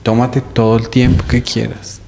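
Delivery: overly kind. Retold or imitated. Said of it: "el man fue muy amable".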